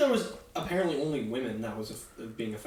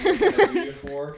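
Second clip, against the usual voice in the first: higher, louder gruff shopkeeper line; rough grunting blacksmith; 8 semitones higher, 9 dB louder than usual. Pretend. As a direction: bark it like a burly blacksmith. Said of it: "almost swapped into the blacksmith voice".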